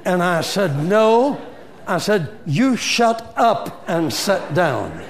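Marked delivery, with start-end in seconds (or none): 0.8-1.4 a loud, sharp no; a firm angry refusal; righteous mad. Retold or imitated. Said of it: "that made me mad". 2.4-5.0 retold angry order. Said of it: "that made me mad".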